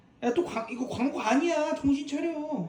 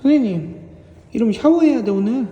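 louder playful warning; loud mock scolding; 7 dB louder than usual. Real, not acted. Telling the cat it needs a shower, loud playful scolding. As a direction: scold the cat half-jokingly, raised voice.

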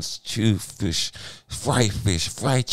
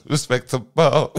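slow, higher, louder mocking echo; mocking repeat; 4 semitones higher, 4 dB louder, slower than usual. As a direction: stretch the word mockingly. Mocking friend's word.

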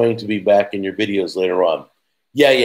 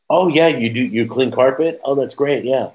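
sarcastic, higher, over-eager yes-man; mock sarcastic agreeing; 5 semitones higher than usual. Retelling a spam call, mock sarcastic. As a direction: play along with the spammer mockingly. Mocking the carpet spam caller.

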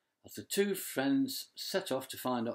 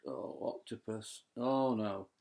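groan. Acted. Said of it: "Shark groaned".

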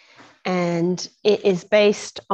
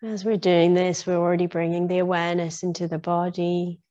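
guided meditation. Real, not acted. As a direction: ease listeners gradually into stillness, phrase by phrase. Leads into a meditation.

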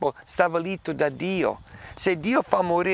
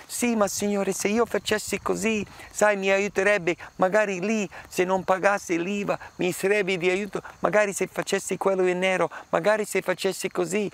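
higher, pleading voice of a believer looking for loopholes; wheedling excuses; 5 semitones higher than usual. Pretend. Believer wheedling with God for exceptions, higher and pleading. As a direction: coax the Lord, then rattle off excuses faster.

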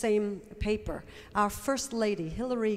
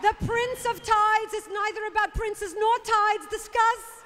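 Coffee Talk topic; 9 semitones higher than usual. Acted. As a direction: pose the topic with a mock-solemn air. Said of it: "I'll give you a topic".

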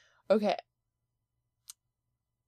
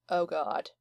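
usual speaking voice

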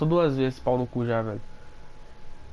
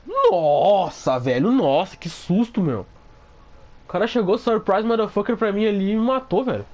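shaken up; 6 semitones higher than usual. Real, not acted. Recovering from scare.

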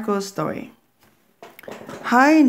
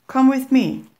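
put-on higher, louder beckoning old witch; old woman's voice; 7 semitones higher, 7 dB louder than usual. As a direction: call the child to follow, pleased. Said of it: "said the old woman".

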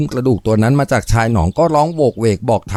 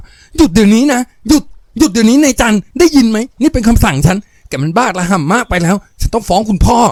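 high shrill-pitched shouted order; screaming at full voice; 11 semitones higher, 3 dB louder than usual. Acted. Planter's daughter screaming at Jan to stop hitting him. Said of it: "ปากร้องสุดเสียงจนถ้อยคำที่หลุดออกมาสั่นระรัว".

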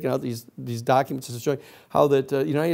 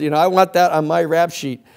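proud, laughing quip, a bit louder; laughing boast; 3 semitones higher, 5 dB louder than usual. Retold or imitated. Protester boasting about the charge, laughing. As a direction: say it grinning with pride. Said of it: "looked around and said".

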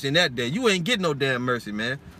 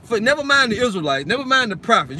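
heated; 4 semitones higher than usual. Real, not acted. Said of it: "I won't get all heated".

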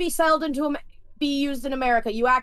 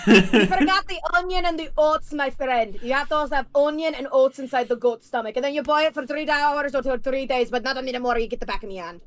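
put-on Scottish accent. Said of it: "you have to do the ridiculous Scottish accent".

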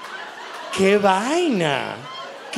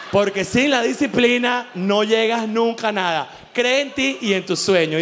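mock guru. Parodies a fitness influencer again.

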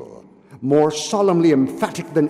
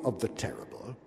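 whispered; 6 semitones lower, 13 dB quieter, faster than usual. A narrator's reading. Dark detail in the story.

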